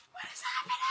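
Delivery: very high, startled; shocked squeak. Real, not acted. Reader stunned that Percy gave Luke the knife, shocked squeak. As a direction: squeak it in disbelief.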